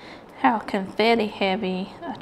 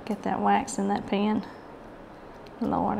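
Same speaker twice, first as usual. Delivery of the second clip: ordinary talk, nothing marked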